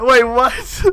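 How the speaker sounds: startled wait, what with a rising question; genuinely thrown by it; sudden disbelief; surprised. Real, not acted. Opponents suddenly leave the game.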